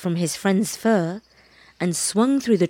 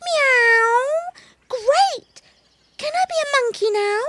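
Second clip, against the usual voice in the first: very high, eager kitten cry, fast at the end; bursting with kitten excitement; excited kitten. Acted. Baby cat eagerly asks the monkey, high and thrilled.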